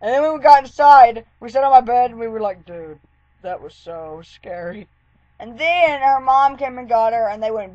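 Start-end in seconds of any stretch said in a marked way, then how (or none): 2.6-4.9 shaken hush. Retold or imitated. Safe inside after the scare.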